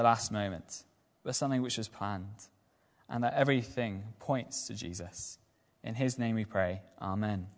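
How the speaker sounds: earnest prayer spoken to the Father. Acted. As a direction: pray aloud reverently for the church. Leads the congregation in prayer.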